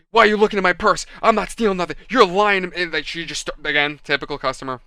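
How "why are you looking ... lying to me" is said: mildly heated mock protest, a bit louder; retold angry outburst. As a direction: imitate an indignant customer losing it. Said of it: "losing her shit".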